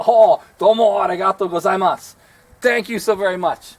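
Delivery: grateful nephew overjoyed at the video game gift; excited thanks. Shown as a demonstration. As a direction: thank your favorite uncle with real delight. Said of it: "favorite uncle ... video game".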